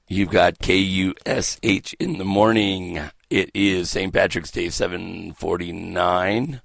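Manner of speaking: slow, stretched DJ announcement; radio station ident. Acted. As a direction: announce it like a morning radio host.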